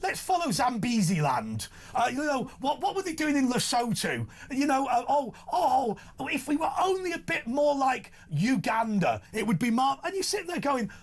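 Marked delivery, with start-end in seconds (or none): 4.5-10.0 hammed-up whiny crying, higher; mock sob, pitched up; mock wailing. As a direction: pretend to weep for Uganda. Mock wailing about Uganda.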